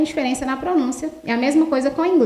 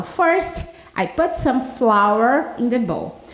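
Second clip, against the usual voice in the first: slow quoted line; much slower than usual. Shown as a demonstration. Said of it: "Então, ela fala".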